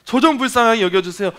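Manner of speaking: a blind beggar calling out for mercy; crying out to Jesus. Retold or imitated. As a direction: beg desperately, voice lifted high. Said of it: "그렇게 부르짖었는지".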